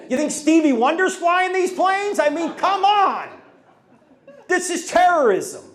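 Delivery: building from muttered scorn to a loud, high rant; scoff, then blow up at the TV; mock rant. Speaker ranting at the CNN commentator, building to a loud yell.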